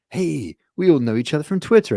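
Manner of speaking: high, loud eager hello; bright recognition at a gig; greeting Twitter friends, high and loud; cheerful greeting. Retold or imitated. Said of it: "you're like".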